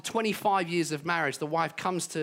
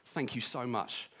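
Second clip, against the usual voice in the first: gentle thank you; 6 semitones lower, 7 dB quieter than usual. Shown as a demonstration. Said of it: "just wind the window down".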